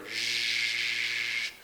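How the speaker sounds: sh said buzzing with voice in the throat; voiced zh sound. Shown as a demonstration. Teacher shows the voiced version of the sound, buzzing. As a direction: voice the sh so it hums. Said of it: "we can feel our voice in our throat".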